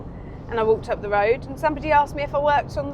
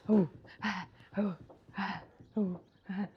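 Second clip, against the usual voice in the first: soft, low panted "oh, ah" noises; hushed mock puffing in a steady rhythm; Rolf Harris; 4 semitones lower, 10 dB quieter than usual. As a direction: imitate an entertainer's rhythmic breathy noises. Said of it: "Ralph Harris".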